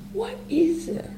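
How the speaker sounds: high, light question, open to everything. Shown as a demonstration. Meditation teacher opening to the whole thing, high open questioning. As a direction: lift it high and let it hang open. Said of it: "just opening to the whole thing".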